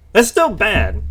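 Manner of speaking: frustrated, hitting still hard; getting angry. Real, not acted. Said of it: "I'm sorry, I'm getting angry".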